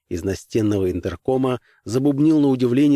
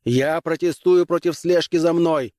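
near shout; 7 semitones higher than usual. Acted. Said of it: "почти крикнул Граймс".

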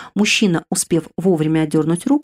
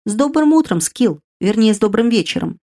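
good-natured; 4 semitones higher than usual. Acted. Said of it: "добродушно сказал".

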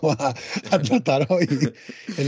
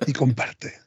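youtuber voice; 4 semitones higher than usual. Pretend. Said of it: "lo dicen los youtubers".

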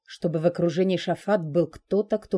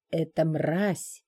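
slow, venomous hiss; much slower than usual. Acted. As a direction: spit the words out slowly. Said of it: "прошипел чёрный дракон".

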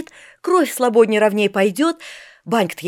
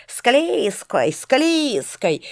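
put-on boys teasing; 4 semitones higher, much slower than usual. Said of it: "Мальчишки всё дразнили".

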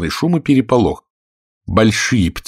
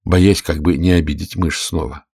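usual speaking voice

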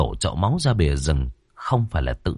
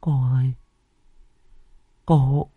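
much higher, stumbling then rushing; trembling terror; 8 semitones higher than usual. Acted. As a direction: stammer out the warning shaking with fear. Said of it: "Chị run cầm cập ... miệng lúng búng". (chị Sính run rẩy báo cô Thao)

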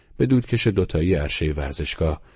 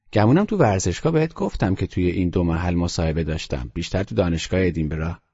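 put-on a calm, serious boy's voice, a little higher; boy Teddy, matter-of-fact; 3 semitones higher than usual. Teddy tells Nicholson about his European trip, in a calm, higher boy's voice. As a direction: voice the grave child reporting his trip.

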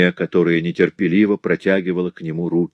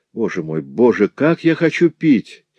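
moaning; 6 semitones higher, 5 dB louder than usual. A narrator's reading. Feverish Madeleine begging her husband for water, moaning. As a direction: moan it out as the fever burns. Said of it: "простонала Мадлен".

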